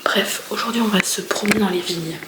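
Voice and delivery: hushed, breathy vlog narration; whispered vlog. Real, not acted. Whispering to viewers about the day's plans. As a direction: whisper it so nobody wakes up.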